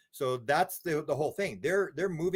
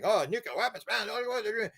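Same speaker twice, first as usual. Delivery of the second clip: mock fear; 8 semitones higher than usual. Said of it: "do the fear thing".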